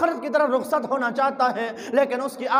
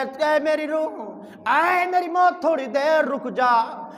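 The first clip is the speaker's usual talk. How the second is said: pleading. Acted. Dying boy begs death to wait.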